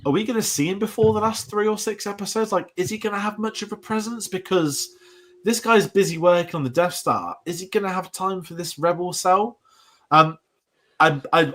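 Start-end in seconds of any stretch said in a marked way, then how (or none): 0.0-9.6 raised, wondering questions; high curious inner voice. Retold or imitated. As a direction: voice your past self's doubt, pitched up. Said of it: "I was like".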